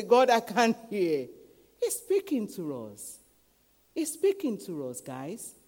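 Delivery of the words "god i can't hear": loud, slow mock complaint; complaint to God. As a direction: call up to God, drawing it out. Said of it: "And you say".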